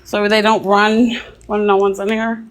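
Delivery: laughing and winded; out of breath. Real, not acted. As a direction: catch your breath while talking. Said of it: "out of breath".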